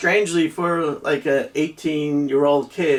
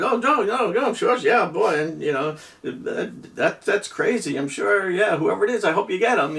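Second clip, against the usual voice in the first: higher, eager "oh, no, no, sure"; overly innocent reassurance; 4 semitones higher than usual. Retold or imitated. Joe to the officer, covering for his friends, higher and eager. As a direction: gush agreement to get rid of the cop.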